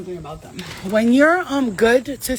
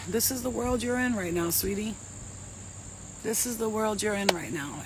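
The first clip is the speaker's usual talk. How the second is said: spirit's voice; 8 dB quieter than usual. Retold or imitated. Spirit speaking to her.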